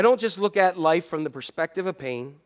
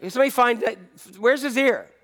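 searching Jesus; 3 semitones higher than usual. Acted. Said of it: "Jesus, like, goes".

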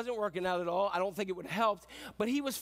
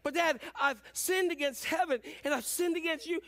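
higher-pitched insistent confession; pleading son; 5 semitones higher than usual. Acted. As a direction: act a son trying to get his apology out.

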